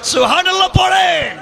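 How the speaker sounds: high, loud call to the crowd; rousing shout. Real, not acted. Preacher bids congregation say SubhanAllah, rousing shout.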